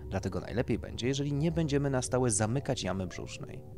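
doctor explaining procedure. Acted. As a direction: explain it like a consultant to a client.

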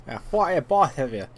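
high-pitched hammed-up retort; put-on game line. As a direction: ham it up, raising the pitch. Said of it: "I just wanted to say it like that".

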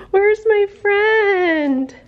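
high, very slow, drawn-out puppy voice; lonely puppy voice. Pretend. Voicing a puppy left alone, high drawn-out whimpering call. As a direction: speak as a little puppy missing its friend.

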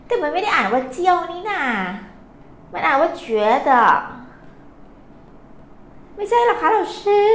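high-pitched imitation of a questioning student; puzzled pupil. Pupil challenges teacher on how a character reads, puzzled. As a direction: play a pupil querying the teacher, voice lifted high. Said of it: "หลายคน เอ๊ะ เราซื้อคะ".

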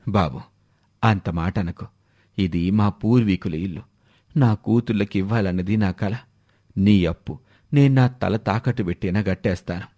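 meek, pleading voice of a poor farmer; pleading old father. Acted. Debtor pleads with lender.

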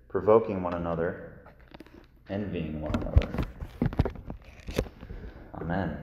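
measured, solemn Bible reading; scripture reading. Acted. Scripture reading before sermon.

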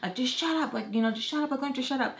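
exasperated telling-off, pitch jumping up; mock motherly scolding. Mom scolds her embarrassing daughter, mock exasperation. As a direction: imitate a fed-up mom lecturing her kid.

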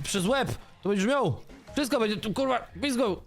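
high, frantic cursing; furious yelling. Real, not acted. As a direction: scream at the thief taking your stuff. Someone stealing his items. (wściekły krzyk na złodzieja rzeczy)

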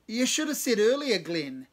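high loud delighted shout; excited shout. A narrator's reading. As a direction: boom it out in delight. Cave excited after scream.

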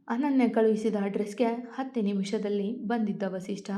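ordinary delivery, nothing marked

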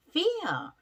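"feel" drawn out with a clear English F; F pronunciation demo. Shown as a demonstration. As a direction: show learners the F starting "feel". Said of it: "F 발음이에요". ("feel"의 F 발음을 또렷하게 시범)

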